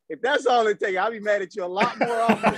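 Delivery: laughing joke. Retold or imitated. Joking to Phil, laughing.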